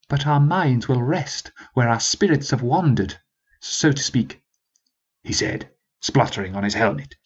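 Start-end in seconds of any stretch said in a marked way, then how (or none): 0.1-4.4 moderately raised sergeant voice; sergeant, first appeal. Acted. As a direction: speak without much force yet. First appeal, before the volume.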